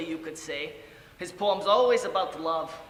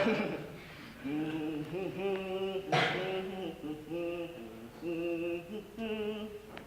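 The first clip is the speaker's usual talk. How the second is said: quiet, drawn-out hummed tune; soft humming; 3 dB quieter than usual. Acted. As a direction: hum a tune softly to himself. Hums between lines of monologue.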